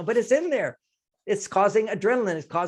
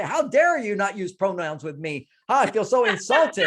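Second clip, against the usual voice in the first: loud mock indignation, louder at the end; hammed-up offended youth; 4 dB louder than usual. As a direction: lampoon an offended young activist. Mocking offended younger generation.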